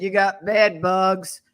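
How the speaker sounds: slow imitation of a tough smoker; gravelly smoker voice. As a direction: draw it out like a tough Southern smoker. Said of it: "that gravelly smoker voice".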